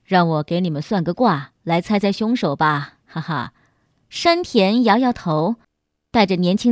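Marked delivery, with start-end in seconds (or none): 0.1-3.5 low-pitched, mildly jocular character voice; joking. A narrator's reading. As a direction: tease lightly in a lower voice, with a small ha-ha. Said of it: "一边开玩笑地说".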